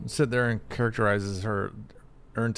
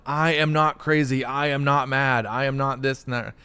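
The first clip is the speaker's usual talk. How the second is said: emphatic, word-by-word protest, easing off; mock crazy insistence; 3 semitones higher, 4 dB louder than usual. Person gaslit by friends, insisting in mock exasperation. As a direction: insist on every word, slightly raised. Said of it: "until you sound like a crazy person".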